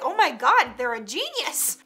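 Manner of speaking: gasping-style praise with a swooping pitch; amazed teachers. Acted. English teachers praising a student, mock amazed. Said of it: "They're like".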